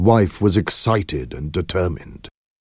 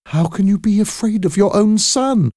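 much higher, louder reproach; indignant exclamation; 4 dB louder than usual. Acted. Wife rebukes husband's fear of their son, high exclamation. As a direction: fling it at him in disbelief. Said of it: "she exclaimed".

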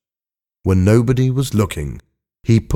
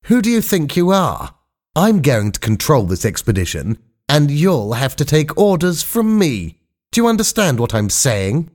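angry voice; 6 semitones higher than usual. A narrator's reading. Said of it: "said Skink in an angry voice".

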